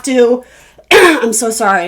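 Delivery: coughing between words, throat catching; fighting a cough mid-sentence; coughing fit. Real, not acted. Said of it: "I'm coughing so much".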